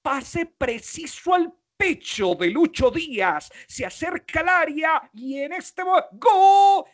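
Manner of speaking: commentator voice rising to a huge shouted ¡gol!; football commentary. Shown as a demonstration. Speaker demoing how sportscasters narrate a goal, building to a shout. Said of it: "¿Qué hacen los narradores de fútbol? Meterle prosodia".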